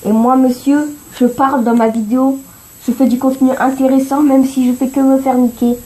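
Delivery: loud, high, grand self-important tone; mock pompous speech. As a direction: play the proud video host. Mock speech to his viewers.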